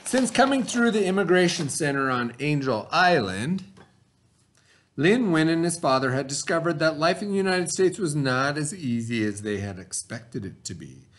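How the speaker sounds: reading a story aloud to the class. A narrator's reading. Teacher reading the story to her students, storybook voice. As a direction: read it like a storybook for kids.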